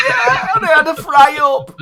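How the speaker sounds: high, loud comic northern character; Peter Kay impression. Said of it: "Do your impression".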